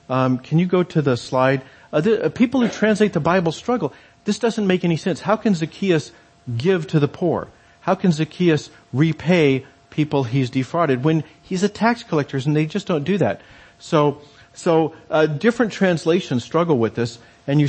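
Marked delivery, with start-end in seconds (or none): 4.2-13.4 mock bafflement. Translators struggling with the text, mildly exasperated bafflement. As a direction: act out a translator who can't make sense of it.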